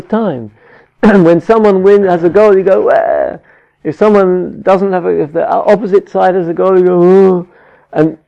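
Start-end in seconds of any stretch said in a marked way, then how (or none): 2.8-3.4 loud, high wordless "wah" cheer; cheering crowd cry. Acted. Fan at the match when someone scores, cheering. 7.0-7.5 loud, high drawn-out "oh"; groaning fan's cry. Acted. Fan when the opposite side has a goal, dismayed. Crowd reacts to rival goal.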